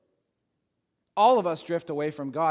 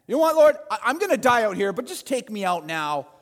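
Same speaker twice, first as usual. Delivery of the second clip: demanding Elijah; 4 dB louder than usual. Retold or imitated. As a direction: force God's hand. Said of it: "he's forcing God's hand".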